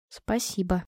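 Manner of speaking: hushed, almost voiceless thanks; whispering. A narrator's reading. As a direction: whisper it very softly. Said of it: "прошептала я".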